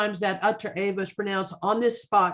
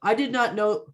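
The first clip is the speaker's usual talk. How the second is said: acting out the line; 4 semitones higher than usual. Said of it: "So what he's saying".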